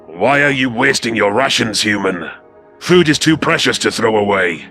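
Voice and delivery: indignant hiss. Acted. Lieutenant scolds human for wasting rations, hissing. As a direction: hiss it in reproach. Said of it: "Kaisel hissed".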